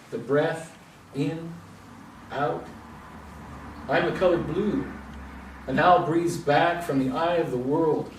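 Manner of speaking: measured poem recital with pauses between phrases; poetry reading. Acted. Poet reads a friend's poem to the audience, measured recital. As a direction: let each short phrase stand alone, then pause.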